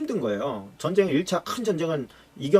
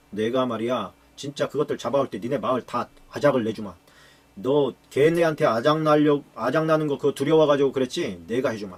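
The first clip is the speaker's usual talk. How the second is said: acted anger, swelling louder midway; angry threat; 3 dB louder than usual. Gideon threatening the town that refused him, acted anger. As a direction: threaten them with heavy, hammered words. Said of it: "막 그러고서 화가 잔뜩 나고서".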